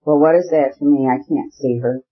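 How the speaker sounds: ordinary delivery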